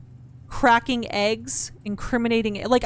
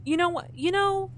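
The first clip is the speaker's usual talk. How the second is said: mock outburst; 8 semitones higher than usual. Real, not acted. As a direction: build up to telling off the item. Cursing at the game item.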